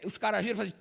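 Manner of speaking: usual speaking voice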